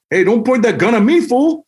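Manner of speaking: high, loud indignant yell; hallway yell. Retold or imitated. Friend in the hallway yelling at an armed guard, high and loud. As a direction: shout it down the corridor at the guard.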